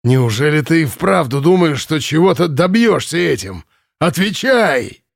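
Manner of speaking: a voiced commandant, rising to a demand; commandant's anger. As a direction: press her for an answer. Commandant interrogating captive girl. (допрос комендантом, гневно)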